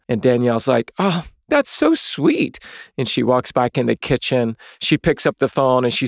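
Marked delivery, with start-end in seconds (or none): 1.0-2.6 high, slow, gushing aww; gushing sister. Retold or imitated. Danielle reacting to Lisa's answer, high slow gush. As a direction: coo it like a delighted sister.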